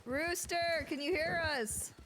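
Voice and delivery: search party calling. Acted.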